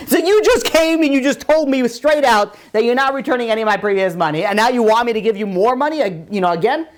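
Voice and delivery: mock disbelief with a laugh going in; acted incredulity, pitch lifting; incredulous lender. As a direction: protest the cheek of the request.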